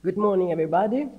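hoarse, rough voice; talking through a sore, rasping throat; grating voice. Real, not acted. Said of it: "I apologize for my terrible voice".

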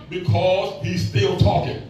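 slow, weighty punchline; slow, drawn-out. Shown as a demonstration. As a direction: still talking said slowly, leaning on "still". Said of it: "Y'all get that?".

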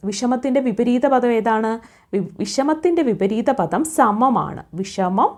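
ordinary delivery

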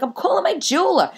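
matter-of-fact squeak. Retold or imitated. Quoting herself to colleague.

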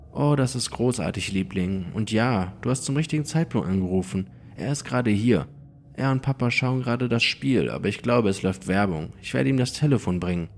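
höhere, fröhlich besorgte Mutterstimme; Mutter am Telefon. Acted. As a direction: eine liebevolle Mama, etwas höher gesprochen. Mutter am Telefon, Erzähler spricht sie. (höhere, liebevolle Mutterstimme am Telefon)

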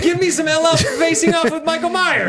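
high, loud and eager; excited. Real, not acted. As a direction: demand it with glee. Excited demand for more.

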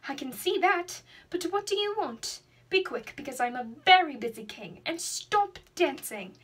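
irritated royal scolding, slowing on the last words; angry king. Acted. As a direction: snap at the cow like a busy, impatient king. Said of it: "the king said in an angry voice".

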